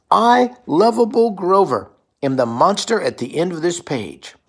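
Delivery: proud and sheepish muppet, stretched out; Grover voice. Acted. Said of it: "Grover says".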